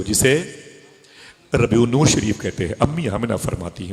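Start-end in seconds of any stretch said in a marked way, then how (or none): 0.0-2.7 a touch fonder and fuller on रबीउन नूर शरीफ; said with love. Shown as a demonstration. Preacher repeats the name for his congregation, lovingly. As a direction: linger lovingly over नूर, a bit louder. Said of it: "वो ज़रा मोहब्बत से कह दो".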